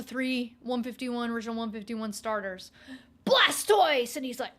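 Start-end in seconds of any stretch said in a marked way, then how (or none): 3.3-4.2 high, loud hype shout of the name; loud hyped name call; announcer call. Acted. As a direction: call it like an anime intro. Narrating Pokemon intro.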